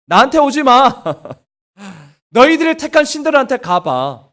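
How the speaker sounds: God sulking, snapping go away; sulky outburst. Acted. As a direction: push them away in a sulk. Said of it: "하나님이 완전히 삐졌어요".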